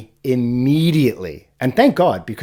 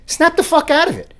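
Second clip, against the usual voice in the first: high, loud barked command; sharp command; 4 dB louder than usual. Retold or imitated. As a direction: snap yourself awake with it. Barked self-command, big jump.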